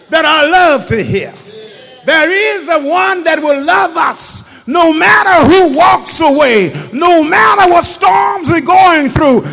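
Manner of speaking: loud, sustained shouted sermon; preaching at full force. Real, not acted. Preacher at the climax to his church, shouted. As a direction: whoop it up at the climax.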